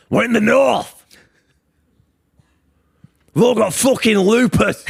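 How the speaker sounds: high laughing squeal through the words. Real, not acted. Laughing at her own joke about the north. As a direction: giggle it out high and slow.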